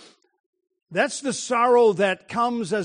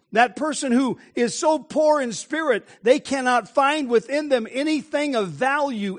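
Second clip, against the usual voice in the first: impassioned preaching; 3 semitones higher than usual. Real, not acted. Preaches with rising force.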